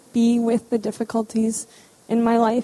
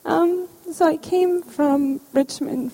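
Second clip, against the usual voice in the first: slow, composing herself after tears; steadying a choked-up voice; holding back sobs; 5 semitones higher, slower than usual. Real, not acted. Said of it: "sorry, I get emotional".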